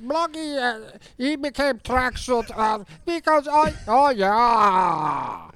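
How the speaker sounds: high excited puppet voice; Bloggy voice. Acted. Bloggy voice, higher.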